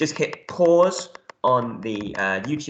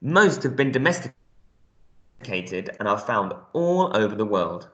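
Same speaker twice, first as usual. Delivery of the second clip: reading aloud. Real, not acted. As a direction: read the information text out to a class. Reads the text aloud.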